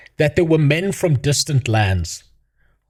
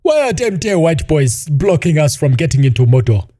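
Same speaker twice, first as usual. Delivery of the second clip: a put-on, louder voice of a cartoon orc; a lightly voiced grumbling orc; mock orc voice; 4 dB louder than usual. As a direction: ham up a dumb orc complaining. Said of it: "first appears on screen and goes".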